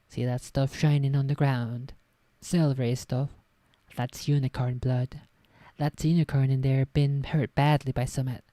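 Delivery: a hint of a West Country Hagrid accent, a bit loud; lightly voiced Hagrid. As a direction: gamekeeper Hagrid in a mild rural accent, pointing out the blood. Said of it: "That's not the Hagrid accent".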